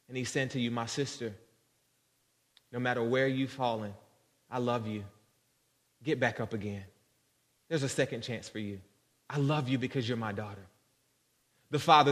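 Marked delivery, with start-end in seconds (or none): 0.7-10.7 soft, gentle fatherly comfort; calm, understated tenderness in preaching; tender reassurance. Acted. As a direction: quietly lift up someone who has fallen. God comforts a daughter.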